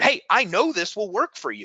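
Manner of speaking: clear, confident, assured and certain tone. Listing important tonalities to remember, giving an example: clear, certain tone. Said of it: "Certainty, be clear".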